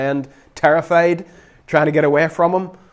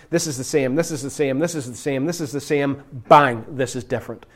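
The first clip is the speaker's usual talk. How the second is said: repeated "this is the same" getting softer, then "Bang"; rhythmic listing; 3 dB quieter than usual. Shown as a demonstration. Preacher miming how the Bible sets stories side by side, rhythmic. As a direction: chant "this is the same" and hit "Bang". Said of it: "illustrating contrast of stories".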